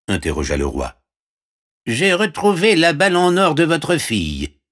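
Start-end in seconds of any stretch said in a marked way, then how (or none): 1.9-4.6 very high frog voice; squeaky-high frog offering help; talking frog. Acted. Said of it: "répondit la grenouille". (voix de grenouille très aiguë)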